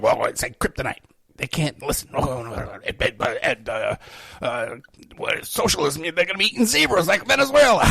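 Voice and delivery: a hammed-up panicked critic, building to a shout; mock the scared anti-socialist, ending in a shout. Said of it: "all these guys out there who say".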